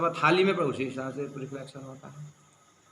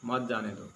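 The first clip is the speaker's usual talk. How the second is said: मत जाने दो as one lower, softer phrase; मत joined to जाने दो; 3 semitones lower, 5 dB quieter than usual. Shown as a demonstration. Preacher finishing the comma example, मत grouped with जाने दो. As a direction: run मत straight into जाने दो. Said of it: "कमा लगाओ".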